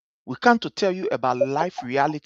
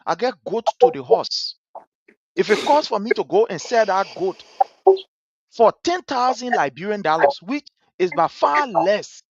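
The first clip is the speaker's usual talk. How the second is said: higher pitched, desperate mock begging; imitating a pleading old man; 4 semitones higher than usual. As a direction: plead like a father in the hospital, voice raised. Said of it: "The old man was crying, say".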